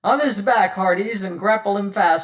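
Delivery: loud orders to the crew; commanding pirate captain. Acted. Pirate captain ordering his crew to pin Martin, loud and commanding. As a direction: command them to pin the man.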